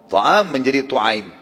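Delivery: "Ta'am" then "tu'aim", slow, vowel changed to u; Arabic diminutive. Shown as a demonstration. Preacher teaching the Arabic diminutive of "Ta'am", slow and deliberate. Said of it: "Diganti fathah pertama menjadi dhammah".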